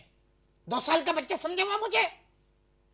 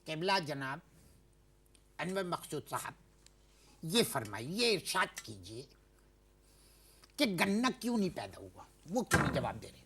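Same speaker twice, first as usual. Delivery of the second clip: much lower and softer, sarcastically courteous; mock politeness; 11 semitones lower, 8 dB quieter than usual. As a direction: overdo the polite manners, sarcastically. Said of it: "अच्छा, मैं तमीज से".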